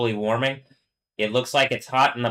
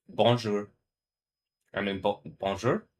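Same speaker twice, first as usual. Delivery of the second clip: unsure French bonjour. Shown as a demonstration. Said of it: "I don't know what the accent on that one should be".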